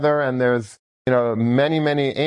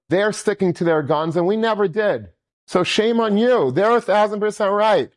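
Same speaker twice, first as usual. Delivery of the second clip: wife shaming her husband, voice climbing higher; scolding wife; 8 semitones higher than usual. Retold or imitated. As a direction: build to a shaming rebuke. Wife scolds husband for breaking Shabbos.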